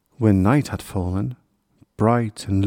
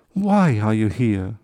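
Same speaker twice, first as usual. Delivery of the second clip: ordinary delivery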